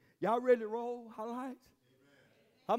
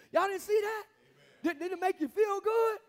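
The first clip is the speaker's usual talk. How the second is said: laughing; 9 semitones higher than usual. Real, not acted. Preacher laughing at congregation.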